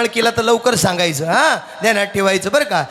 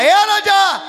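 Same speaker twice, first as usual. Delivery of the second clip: policeman calling; 10 semitones higher, much slower than usual. Retold or imitated. Policeman calls out to the old man. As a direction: hail him like a cop.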